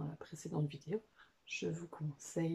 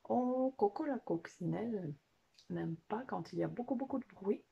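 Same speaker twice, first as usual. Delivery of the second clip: puppet companion; 3 semitones higher than usual. Pretend. Puppet warns children about Coco disliking noise, lightly put-on voice. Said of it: "qu'est-ce qui est important encore à savoir".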